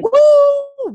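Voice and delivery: high, loud whoop; celebratory woo. Retold or imitated. Remembering twenty grand, she whoops with joy. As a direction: let out a joyful cheer.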